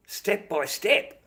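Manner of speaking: high, slow, loud disbelief; incredulous. Real, not acted. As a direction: drag it out in disbelief. Incredulous repeat.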